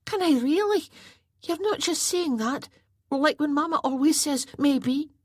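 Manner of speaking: put-on excited boy. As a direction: squeal with disbelief.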